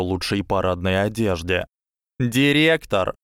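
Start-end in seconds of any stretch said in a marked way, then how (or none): 2.2-3.1 precisely clipped. A narrator's reading. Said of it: "отчеканила Дафна точно выверенным голосом".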